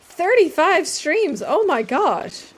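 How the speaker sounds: loud, high, drawn-out exclamation; real excited amazement. Real, not acted. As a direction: stretch each word in delighted surprise. Thrilled reaction to a viewer's streak.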